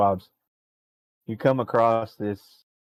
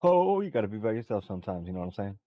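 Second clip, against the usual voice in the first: Singer-style NPC voice; 4 semitones lower, 4 dB quieter, faster than usual. Acted. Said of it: "a singer impression".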